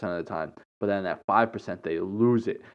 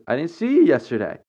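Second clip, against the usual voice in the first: higher, quicker, mock-sweet imitation of a pointed remark; passive aggressive; 6 semitones higher, 5 dB louder, faster than usual. Church acquaintance repeating her hint about missed church, mock passive-aggressive. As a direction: fake innocence with a hidden jab. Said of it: "Passive aggressiveness".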